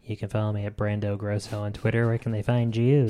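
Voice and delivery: low-key NPR host parody; smooth, understated radio voice; put-on radio host voice. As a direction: sign off like a public radio host. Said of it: "That's a good voice".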